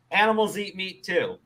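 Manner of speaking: ordinary talk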